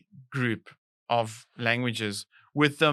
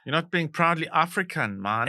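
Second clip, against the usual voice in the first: put-on light Jamaican accent, laid-back; 4 semitones higher than usual. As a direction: slip into a Jamaican lilt. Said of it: "You did a Jamaican accent".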